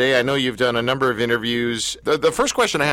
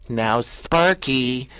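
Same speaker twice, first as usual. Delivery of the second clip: mock gentle scolding; much slower than usual. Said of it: "by going".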